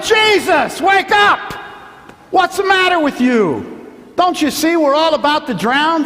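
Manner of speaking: high, loud panicked shout; frantic yell at the sleeping master. Acted. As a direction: scream it like men about to drown. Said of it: "They yelled".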